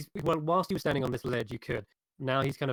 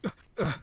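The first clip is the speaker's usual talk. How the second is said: higher effortful grunts; imitated grunts; 5 semitones higher than usual. Game master shows giant struggling to get up, imitated grunts. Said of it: "but he's like".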